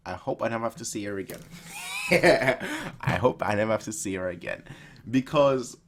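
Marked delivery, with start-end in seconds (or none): 1.7-4.6 laughing. Real, not acted. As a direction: repeat it through a laugh. Repeats it after laughing.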